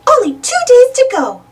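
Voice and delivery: Minnie calls to Mickey, a bright lift in her voice; excited. A narrator's reading. Minnie telling Mickey the Christmas countdown, excited. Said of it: "she said excitedly".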